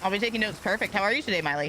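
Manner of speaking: talking while munching on food; words through a crunchy bite; crunching chips. Real, not acted. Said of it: "Don't mind me crunching".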